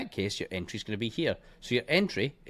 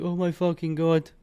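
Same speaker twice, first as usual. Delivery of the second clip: higher, louder put-on gasp of alarm; mock panic; 6 semitones higher, 5 dB louder than usual. Trader mocking idiots on two-minute charts, hammed-up panic. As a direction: parody an idiot seeing a big drop. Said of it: "massive drops and be like".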